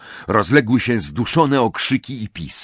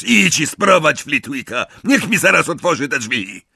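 raised, irritated command; barked order; 7 semitones higher, 4 dB louder than usual. A narrator's reading. Amisius sends the professor to fetch Flitwick, angrily commanding. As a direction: order them about angrily.

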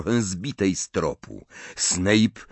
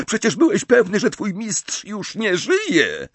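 much higher, louder, fast accusation; accusing Bellatrix; 14 semitones higher, 4 dB louder than usual. Acted. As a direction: hammer him with demands.

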